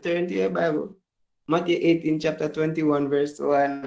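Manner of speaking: lightly voiced pastor calling out a verse; imitating preacher. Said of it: "the first thing she said".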